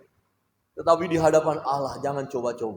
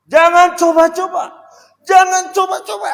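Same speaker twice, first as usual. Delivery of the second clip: high, loud stern warning; shouted warning; 16 dB louder than usual. Shown as a demonstration. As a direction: shout it like a threat. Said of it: "Ada beda loh itu". (peringatan keras dengan teriakan)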